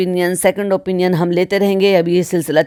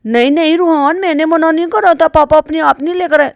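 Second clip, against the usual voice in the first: high-pitched mock denial; put-on motherly protest, high; mimicking a mother; 8 semitones higher, 3 dB louder than usual. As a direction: imitate a mother protesting to her child, pitched well up. Imitating mother's denial to child.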